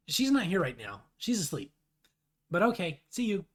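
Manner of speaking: lightly voiced character reply; John voice. John answering the troll for sleeping Rose, lightly voiced. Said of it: "Do I do a John voice here?".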